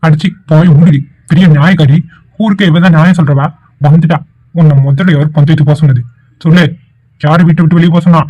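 loud furious scolding of his sister; angry shout. Acted. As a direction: bark at her to shut up. Brother berates sister. (தங்கையை கோபமாக திட்டும் அண்ணன், உரத்த குரலில்)

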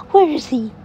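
high, loud, slowed peekaboo; spring the surprise on the baby; delighted peekaboo; peekaboo reveal. Acted.

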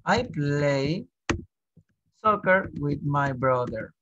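slow, careful teacher model of "soccer with my brother"; slow model sentence. Shown as a demonstration. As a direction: say it slowly so students can follow. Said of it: "teacher models sentence slowly". (frase modelo dicha despacio)

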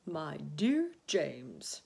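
put-on slow, fond old grasshopper; affectionate, unhurried praise. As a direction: draw out the address fondly. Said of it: "laying a front leg affectionately".

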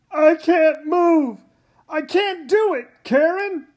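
giving up in pain; strained despair. Acted. Trapped father.

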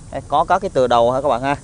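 ordinary talk, nothing marked

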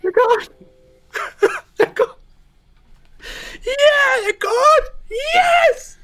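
very high, loud hammed-up sobbing; fake-sob it, shrieking high; mock crying. Mock crying over deleted videos.

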